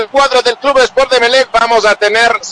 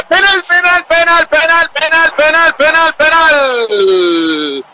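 excited penalty call; 4 semitones higher, slower than usual. Real, not acted.

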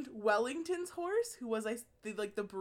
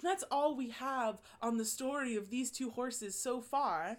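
slow mock-British documentary narrator; British accent; 3 dB quieter than usual. Narrator wrapping up the horses' story, British accent. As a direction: lightly put on a British accent, drawn out. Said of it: "in, like, a very British accent".

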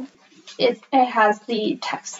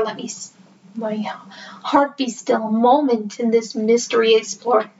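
poem reading. Acted. Reading The Raven aloud to listeners, in a hushed spooky recital. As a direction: read it like a ghost story by candlelight.

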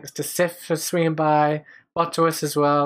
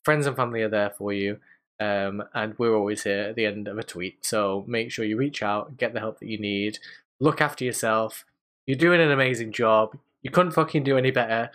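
sincere; 3 semitones lower than usual. Real, not acted. Serious sign-off, urging viewers get help.

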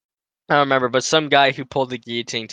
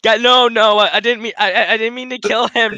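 higher, louder mock panicked denial; 6 semitones higher, 3 dB louder than usual. Friend acting out a panicky soldier to his mates, mock panic, higher and louder. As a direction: play a soldier pleading he didn't mean it.

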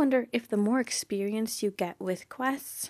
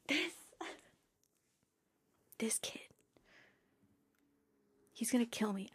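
laughing; 12 dB quieter than usual. Real, not acted. Laughing at Percy's line.

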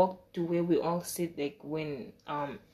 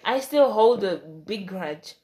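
firm grudge; 5 dB louder than usual. Retold or imitated. Grudge declared to friends.

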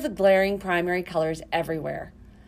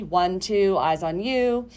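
kindergarten teacher voice; slower than usual. Shown as a demonstration. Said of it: "ways to prepare students to listen".

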